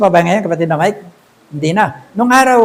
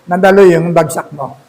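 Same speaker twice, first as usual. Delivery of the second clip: laughing; 3 semitones lower than usual. Real, not acted. Laughing at failed interview.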